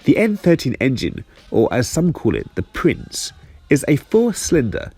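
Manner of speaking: speaking with a numb mouth. Real, not acted. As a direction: talk as if half your mouth is numb. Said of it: "Sorry if I sound a bit funny today".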